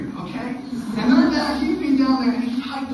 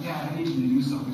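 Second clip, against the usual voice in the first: pleading son; 9 semitones lower, much faster than usual. Retold or imitated. Son in pain calls his dad.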